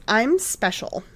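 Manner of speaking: put-on ditzy Valley Girl voice; airy, upspeak Valley Girl. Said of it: "like a Valley Girl like I did".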